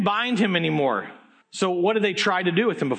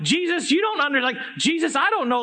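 panicked plea; 5 semitones higher than usual. Acted. Panicked disciples plead with Jesus.

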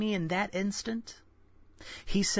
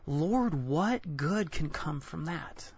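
slow, hushed plea to the Lord; pleading prayer; slower than usual. Retold or imitated. Pleading question to God.

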